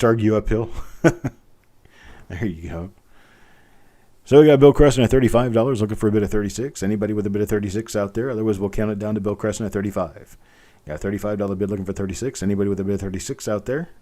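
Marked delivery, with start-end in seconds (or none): 4.2-13.9 quick, rolling auction patter; fast live auction call; auctioneer bid call. Acted. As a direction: keep the bids moving, fast. Auctioneer calling for bids.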